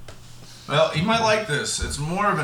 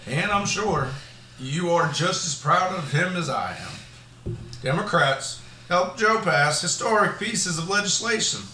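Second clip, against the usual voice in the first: Joe Biden voice. Acted. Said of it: "I was trying to sound like Joe Biden".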